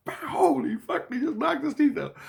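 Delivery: very high, squeaky mock scream; imitated scream. Teller repeats the Christ's scream about the punch, high mock scream. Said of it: "one of my Christs scream out".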